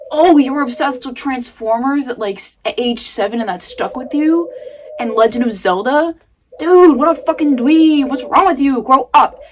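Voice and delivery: mock yourself like a bully would; inner critic mocking. Voicing her harsh inner critic at herself, sneering and loud. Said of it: "it's like".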